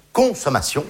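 "consommation" with CON set apart and punched; stress on CON. Shown as a demonstration. Comic exposing the word inside "consommation", CON stressed. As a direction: lean hard on the first syllable of "consommation". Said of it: "la première syllabe est quand même très claire".

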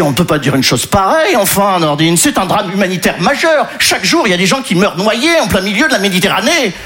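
mildly indignant, rising in pitch; indignant protest. Acted. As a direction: plead earnestly with the grocer. Acted indignant reply to the grocer.

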